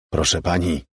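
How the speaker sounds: gently hint at a trembling voice. A narrator's reading. Man addressing the bloodied aunt, voice lightly trembling. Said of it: "odezwał się drżącym głosem".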